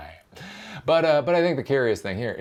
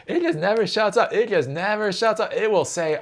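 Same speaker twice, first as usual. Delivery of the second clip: high, louder mocking squeal; 11 semitones higher, 4 dB louder than usual. Mock squeal continued.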